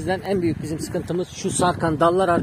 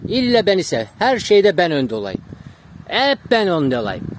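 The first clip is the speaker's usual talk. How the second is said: slightly raised, teasing imitation; mocking the dog; 4 semitones higher, 4 dB louder than usual. Voices the jealous dog's demands.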